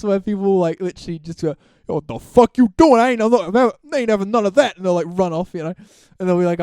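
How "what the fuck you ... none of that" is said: louder, higher mock outrage; hammed-up indignant yell; imitated angry bystander. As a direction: act the offended passer-by telling him off. Retold bystander confronting the prankster.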